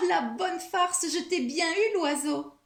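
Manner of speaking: high, gleeful gloating through laughter; laugh, then crow it in a high voice; bursting with laughter. A narrator's reading. Mouse crowing over the bird she tricked, bursting with laughter. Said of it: "Souris Grise éclate de rire".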